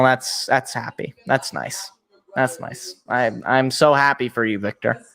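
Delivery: soft, low murmur of happiness for him; quietly pleased for someone, voice dropped low; gentle and hushed; touched, tender. Real, not acted. Touched by tearful draftee's happy moment.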